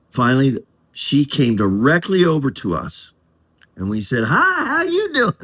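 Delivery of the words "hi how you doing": much higher, slow Southern hick greeting; redneck drawl. Acted. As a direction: greet the annoyed host in a goofy Southern drawl. Greets angry host in costume.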